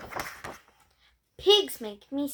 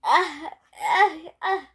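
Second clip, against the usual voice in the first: building sneeze. Acted. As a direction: pretend pre-sneeze gasps. Character about to sneeze.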